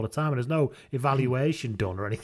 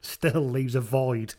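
gloomy pundit voice; slower than usual. Retold or imitated. Voicing miserable pundit.

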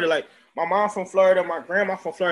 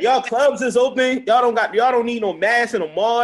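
amazed disbelief; 5 semitones higher, 5 dB louder than usual. Real, not acted. Disbelief at Atlanta reopening.

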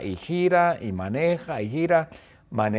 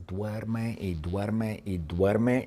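slow, sleepy drawl; drawn out; 3 semitones lower, 6 dB quieter, much slower than usual. A narrator's reading. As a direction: stretch it out like endless sleep. Narrating endless sleep. (lento y soñoliento)

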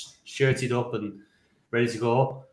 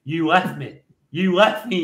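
imitating a fuming dad, a touch raised; mildly acted angry complaint; retold fuming accusation; 4 semitones higher, 3 dB louder than usual. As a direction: accuse like a wronged dad, pitch rising on the repeat. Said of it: "He's fuming".

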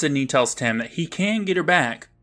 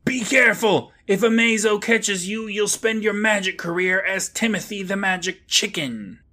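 yelling rabbit; 8 semitones higher than usual. Acted. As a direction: yell it out as a worked-up rabbit. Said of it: "the rabbit yells".

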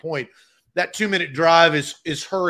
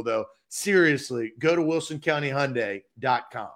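upbeat radio ad voice; ad read. Acted. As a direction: sell the dealership with energy. Host reads a car dealer ad.

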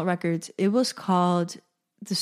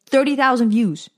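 louder, higher, thrilled exclamation; excited repeat with raised pitch; amazed; 4 semitones higher, 6 dB louder than usual. Real, not acted. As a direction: marvel out loud at the number. Reliving amazement at view count.

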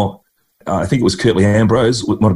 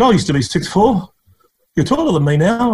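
put-on old cricketer's voice; 11 semitones higher than usual. Retold chat with old bowler.

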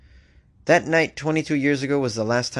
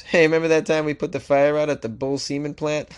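lightly voiced Aussie firefighter, a bit higher and brighter; joking firefighter; 4 semitones higher than usual. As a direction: tease your mate about the old fire. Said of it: "these firefighters are gonna laugh at this".

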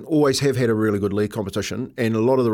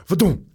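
higher mimicked tumbling thud; imitated thud; 5 semitones higher than usual. Teammate tumbling in human rat wheel, imitated thud. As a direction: voice the bump of a body hitting. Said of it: "He's going".

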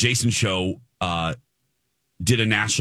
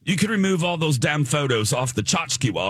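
put-on British accent; 6 semitones higher than usual. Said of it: "a British set guy".

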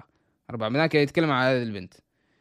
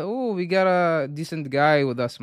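سخرية ساخرة بطيئة; تقليد ساخر ممطوط; mocking quote; 2 semitones higher, much slower than usual. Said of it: "كانت تمسخر". (نبرة استهزاء مقلدة)

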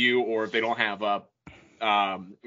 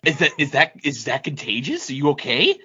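acted worry, questions rising at the end; hammed-up concern; mock alarm. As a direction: play a concerned friend checking on someone. Acts worried reaction to medical term.

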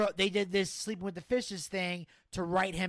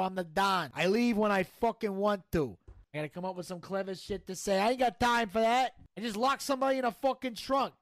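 brash gangster bragging and griping; cocky mob boss. Acted. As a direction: play a swaggering mafia don. Plays mobster Tony D in skit.

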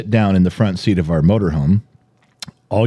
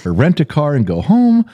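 high, wailing mock lament; high-pitched mock wail of despair; imitating crying; 6 semitones higher than usual. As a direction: whine it like a tearful grandma. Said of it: "and they're crying".

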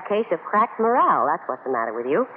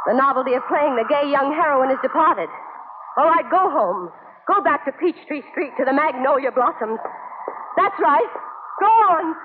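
bitter mocking to shout; 5 semitones higher than usual. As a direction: taunt her until you explode. Joe mocks her, rising to a shout.

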